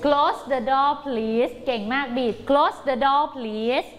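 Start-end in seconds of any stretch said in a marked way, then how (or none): 0.1-1.5 very slow model reading. Shown as a demonstration. Teacher modelling the sentence for pupils. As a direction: Close the door please drawn out word by word. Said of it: "เราจะต้องอ่านว่า".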